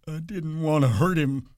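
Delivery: distressed, whimpering cry. A narrator's reading. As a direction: plead through misery that it was unintended. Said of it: "Lenny cried".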